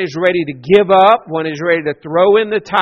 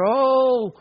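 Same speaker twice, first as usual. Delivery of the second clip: crying out; 3 semitones higher than usual. Retold or imitated. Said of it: "the people cried out".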